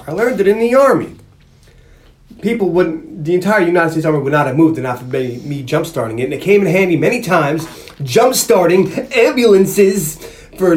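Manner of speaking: odd accent, badly missing Italian New Yorker; strange Vinny accent. Vinny spinning his Army story to an interrogator, in a strange mock accent. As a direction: spin the tale in a lightly put-on weird accent. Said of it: "It's a very weird voice".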